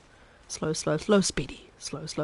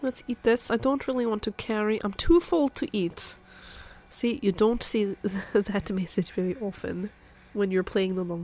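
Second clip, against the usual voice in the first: Chef Maria. Acted. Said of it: "I can go back to speaking like a normal person now".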